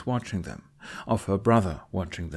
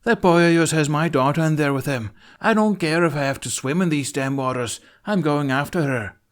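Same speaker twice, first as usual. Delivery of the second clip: loud, high furious demand; angry shout; 7 semitones higher, 7 dB louder than usual. Acted. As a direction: shout it like a desperate father. Father shouting about taken daughter.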